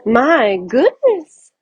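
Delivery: put-on tut-tutting old woman. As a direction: tsk like a fussing granny. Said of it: "with a shake of her head".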